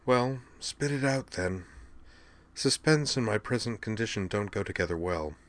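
soft, unhurried invalid's composure; calm, softened voice. A narrator's reading. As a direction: ask for it quietly and calmly. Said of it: "she said calmly".

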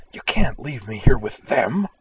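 high, slow, forceful hissed plea; urgent stage whisper, pressing every word. A narrator's reading. Cottrell begging to escape with Boomer, hissed. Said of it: "he hissed".

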